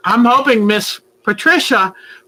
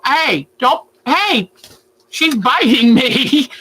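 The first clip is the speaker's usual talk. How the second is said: startled by bite; 4 semitones higher, slower than usual. Real, not acted. Bird biting her.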